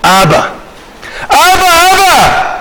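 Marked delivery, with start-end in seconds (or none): 1.3-2.5 high, drawn-out mock cry; pitched-up plea, voiced as a child. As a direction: imitate a small child calling for a parent. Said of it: "זה מה שהוא צועק".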